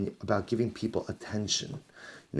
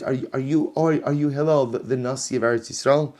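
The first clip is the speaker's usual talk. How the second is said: higher and louder sneering question; mock taunting; 5 semitones higher, 6 dB louder than usual. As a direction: goad him, loud and high. Man baiting Hillel.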